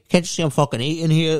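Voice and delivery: fast, irritated Tony Soprano snap; Tony Soprano annoyed. Retold or imitated. Telling fans off mid-meal, fast and irritated, a lightly done Tony Soprano. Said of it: "do Tony Soprano".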